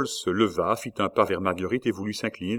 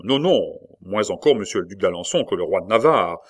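louder, insistent denial; heated protest; 6 dB louder than usual. Acted. La Mole protesting loudly to the queen. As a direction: push back hard, voice rising.

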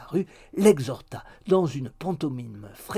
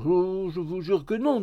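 eager, higher-pitched denial; lively; 5 semitones higher than usual. A narrator's reading. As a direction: swear it with great vivacity. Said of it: "avec une remarquable vivacité". (serment vif et empressé)

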